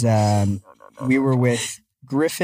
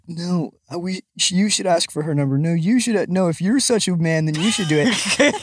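higher-pitched mock back-and-forth between boys; light, high squabbling-friends voice; bickering boys; 5 semitones higher than usual. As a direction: imitate guys egging each other on, pitched up. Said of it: "these boys are, are deliberating, like".

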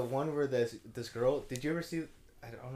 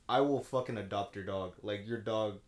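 podcaster quote; 8 semitones lower, 8 dB quieter than usual. Retold or imitated. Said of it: "he said, like".

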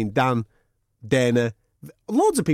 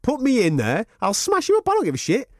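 fired-up fighter quote; 4 semitones higher than usual. Retold or imitated. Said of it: "Frankie Edgar's turned around and says".

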